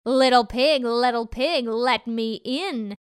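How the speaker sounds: angrier wolf. Acted. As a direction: demand it, getting angrier. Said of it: "this time closer and angrier".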